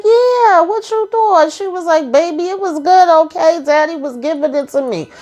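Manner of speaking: high, giddy, teasing woman's voice; high tipsy Nancy. Retold or imitated. Recapping the show, voicing Nancy confessing to Richard, in a high giddy voice. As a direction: play her as a giddy, oversharing flirt.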